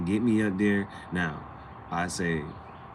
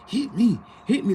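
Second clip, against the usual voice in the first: high, loud goading "hit me"; mock taunt; 12 semitones higher, 4 dB louder than usual. Girl goading him to hit her, mock taunt. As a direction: egg him on to hit you. Women provoking, acted taunt.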